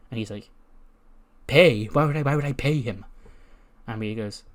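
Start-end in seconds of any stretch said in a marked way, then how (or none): 1.5-3.0 louder, incredulous first word; mock affront at the question; indignant disbelief. Wrestler baffled he should pay the painter, indignant. Retold reaction to being asked to pay.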